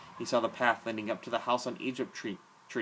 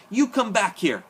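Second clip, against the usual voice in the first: shrill, much higher, loud possessive yell, slow at the end; madman's shout; 10 semitones higher, 10 dB louder than usual. A narrator's reading. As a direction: scream it like a mad king of the dump. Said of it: "Ernest shouted".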